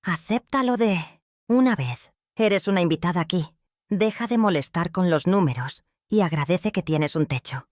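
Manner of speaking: desdeñoso y altivo; la humilla con desprecio; arrogante. Acted. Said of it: "la arrogancia goteando en cada sílaba". (hijo que echa en cara a su madre, altanero)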